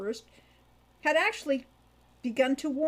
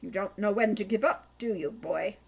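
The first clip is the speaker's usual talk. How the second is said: sniffy disdain. Acted. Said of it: "he sniffed".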